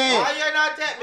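mock Asian accent. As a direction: drag out a put-on Asian accent. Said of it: "Can you do an Asian voice?".

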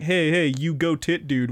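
"you go tit dude" with the break after go; misread gamertag. Retold or imitated. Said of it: "often misconstrued".

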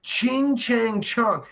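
very slow, drawn-out syllable by syllable; mock reading of a racist comment. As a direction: drag each word out like quoting something dumb. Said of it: "He's making fun of Chinese people".

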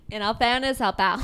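attempted Irish accent. Shown as a demonstration. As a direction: give it a firm mock Irish lilt. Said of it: "I can do the Irish one".

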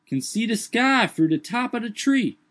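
high put-on dialect voice, startled; Jupiter's voice. A narrator's reading. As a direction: lift the voice high and protest.

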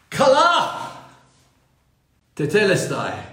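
ringing high cry on Kala; loud cry. Acted. Preacher voices Jesus crying out loudly on the cross. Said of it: "cried out with a loud voice".

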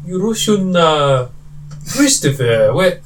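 slow, failed Russian accent attempt. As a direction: try a Russian accent and give up. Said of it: "Oh, I can't do it".

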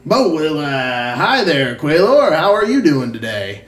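lightly voiced innkeeper greeting a regular; a drawn-out hello from the innkeeper. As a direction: greet a familiar customer in character. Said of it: "and he says".

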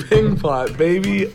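hype catchphrase. Pretend. Intro catchphrase.

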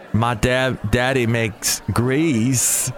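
GREASE stretched long at the end; slow Southern delivery, dragging out GREASE; dragged-out last word. Retold or imitated. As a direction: lean on GREASE and draw it out. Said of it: "take that last word and you drag it out".

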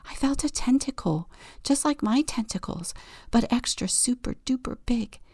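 fast, eager hushed telling; bubbling over in a whisper; excited whisper. Acted. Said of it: "Octopus whispers excitedly".

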